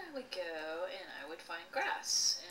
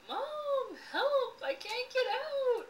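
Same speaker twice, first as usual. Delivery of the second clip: put-on high, loud little-girl plea, crying out; a stuck six-year-old calling her mom in panic; shrill childish wail for mom; panicked cry for help; 5 dB louder, slower than usual. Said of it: "I'm crying and I'm saying".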